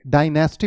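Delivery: डायनेस्टी as "die-NAS-tee"; common mispronunciation. Shown as a demonstration. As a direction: say डायनेस्टी with a full middle vowel. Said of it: "बहुत लोग बोलते हैं".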